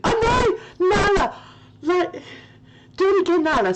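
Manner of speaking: high, loud teary laugh-talk; crying with laughter. Real, not acted. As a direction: squeal it through tears of laughter. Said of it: "I'm crying".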